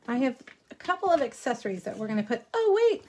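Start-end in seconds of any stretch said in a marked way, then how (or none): 2.5-3.0 high, quick "oh, wait" as it dawns on her; sudden realization. Real, not acted. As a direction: catch yourself mid-sentence, pitch jumping up. Suddenly remembers mid-sentence.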